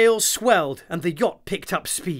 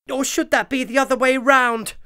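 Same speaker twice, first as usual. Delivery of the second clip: wondering bee; 9 semitones higher, 4 dB louder, faster than usual. A narrator's reading. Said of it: "wondered Daisy Bee".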